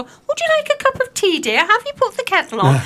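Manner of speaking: put-on high, sweet fussing old lady voice; dotty absent-minded old lady. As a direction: put on a dithering little old voice. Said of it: "this voice will go".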